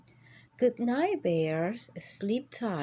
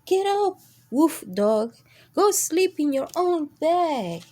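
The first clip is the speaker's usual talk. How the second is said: loud, high barked order; loud dog order; 7 semitones higher, 7 dB louder than usual. A narrator's reading. Dog loudly ordering the intruder from his kennel. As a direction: bark him out of the kennel.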